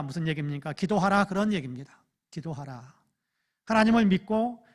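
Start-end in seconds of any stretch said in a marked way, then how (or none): 0.7-1.2 "기도하라" louder and higher, rising; emphatic. Shown as a demonstration. Pastor urging the congregation to pray, louder. Explaining the verse. 2.3-2.9 "기도하라" softer and lower, falling; softly. Shown as a demonstration. Pastor repeating the command to pray, softer. Explaining the verse.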